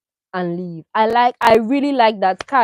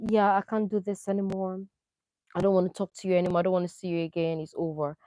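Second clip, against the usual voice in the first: calm and final; 3 semitones lower, 8 dB quieter, faster than usual. Retold or imitated. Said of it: "he sat down very calmly".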